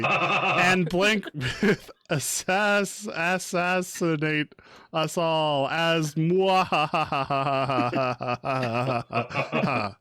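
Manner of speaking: slow, cackling evil genius; mad scientist. Pretend. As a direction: drawl it like a gleeful villain. Villainous intro with evil laugh.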